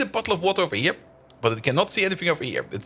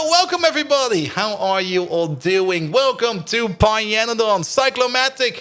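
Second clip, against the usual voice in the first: streamer welcome; 4 semitones higher than usual. Acted. Greeting raiders on stream, a big slow host welcome. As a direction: roll out the welcome like a show host.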